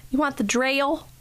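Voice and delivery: "drill" stretched into a Southern "drail"; Southern drawl on drill. Retold or imitated. Mom imitating her son's new Southern "drill". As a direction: mimic the boy's twangy "drill". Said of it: "And Carson was like".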